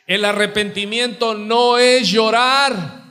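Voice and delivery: slow it down and call it out so all hear; emphatic shout. Real, not acted. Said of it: "Grítalo para que te escuchen". (proclamación enfática, lenta y alzada)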